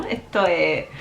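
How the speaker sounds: Venezuelan 'esto es' with dropped s sounds; Venezuelan accent. Retold or imitated. Quoting a Venezuelan friend's habit, Venezuelan accent with dropped s. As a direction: imitate a Venezuelan, letting the s fall away. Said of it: "Él siempre decía".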